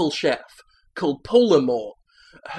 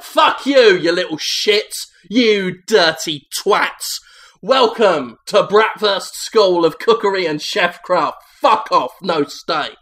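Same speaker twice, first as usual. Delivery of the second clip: furious screaming chef, much louder and higher; shouting headmaster; 3 semitones higher, 5 dB louder than usual. Acted. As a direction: scream abuse at the new pupils. Gordon Ramsay headmaster greets pupils.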